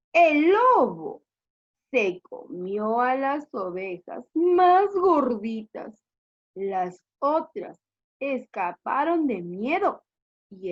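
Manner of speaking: slow storybook reading with long pauses; story narration. Acted. Teacher reads the sad ending to pupils, storytelling. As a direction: stretch key words for children.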